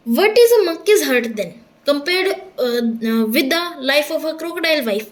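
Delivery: slow, measured English reading; story read-aloud. A narrator's reading. Rereads the English story line.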